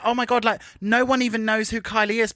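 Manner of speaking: mock-amazed and dismissive; rude disbelief. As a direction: mimic a condescending rival. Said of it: "just so rude, as if she's like".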